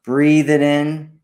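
unhurried guided meditation with long pauses. Acted. Host guiding listeners to breathe in healing energy, calm meditation delivery. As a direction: guide listeners through breathing, leaving space between phrases.

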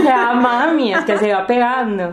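lightly imitated Colombian lilt; Colombian accent. Daughter answering mom from Colombia, light Colombian accent. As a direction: explain it with a borrowed Colombian accent. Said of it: "¿Por qué estás hablando así?".

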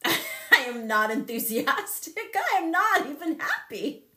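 laughing through the words. Real, not acted. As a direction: giggle while saying it. Laughing while retelling.

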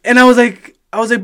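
ordinary delivery

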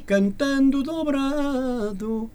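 "dobrado" drawn out as one word; run-together dobrado. Shown as a demonstration. Singer showing a fault to the host, dobrado run together. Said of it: "Parece que está qualquer coisa a dobrar".

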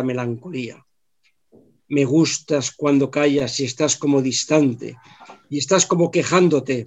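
grand poetry declamation. Shown as a demonstration. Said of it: "os lo voy a recitar, a declamar".

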